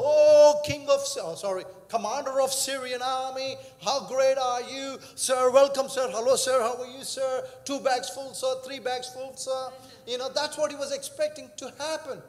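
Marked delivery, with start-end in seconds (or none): 0.0-9.7 a hammed-up eager servant, loud at first; mock grovelling to a proud commander, bursting out then settling; fawning servant greeting. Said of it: "thinking that Elisha will come out of his house and go".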